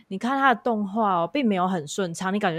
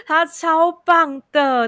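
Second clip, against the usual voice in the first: laughing; 10 semitones higher, 8 dB louder, much slower than usual. Real, not acted. Gushing about her idol.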